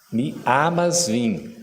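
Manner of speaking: "amas" with an open "a", no nasal; open, un-nasal vowel. Shown as a demonstration. Teacher correcting the audience's Portuguese nasal vowel, clearly. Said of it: "que não nasaliza".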